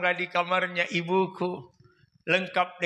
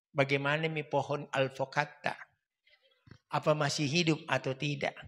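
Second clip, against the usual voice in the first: mock sentimental letter; 8 semitones lower, 5 dB quieter than usual. Student reading his begging letter to his parents, hammed-up tender. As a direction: lay the homesickness on thick, quietly.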